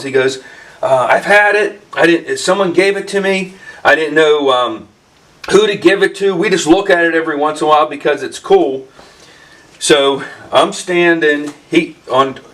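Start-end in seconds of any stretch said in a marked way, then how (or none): 1.1-8.9 higher pitch, quick end; eagerly explaining; excited. Retold or imitated. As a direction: friend eager to give away a box. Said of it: "he's still all excited".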